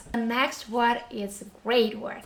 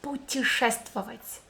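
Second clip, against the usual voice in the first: sped up. Shown as a demonstration. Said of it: "let's speed this word up".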